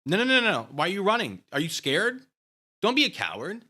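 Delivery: high, loud taunting yells; taunting shout. Acted. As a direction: goad him like a schoolyard bully. Taunting opponent to fight.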